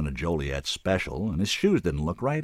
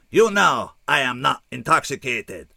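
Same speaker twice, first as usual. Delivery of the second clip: slow, much higher alien voice; flat statement; 7 semitones higher, 6 dB louder than usual. A narrator's reading. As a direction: state it as plain fact. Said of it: "he stated".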